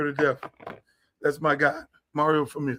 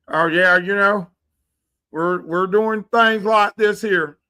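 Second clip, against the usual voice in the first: mock Southern twang; 4 dB louder, slower than usual. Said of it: "Southern twang".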